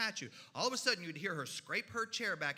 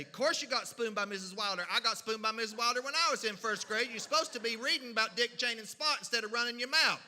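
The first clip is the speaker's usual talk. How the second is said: scolding mother; 2 semitones higher, 4 dB louder than usual. Acted. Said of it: "every other mother in my county would say".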